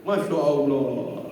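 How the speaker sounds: slow, drawn-out masya allah said aloud; drawn-out exclamation. Acted. Preacher exclaims about the pilgrim's treat. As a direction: stretch it out with open admiration.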